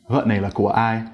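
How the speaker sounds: của dropped without a rising tail; no rising ending. Shown as a demonstration. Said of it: "pitch didn't rise at the end at all".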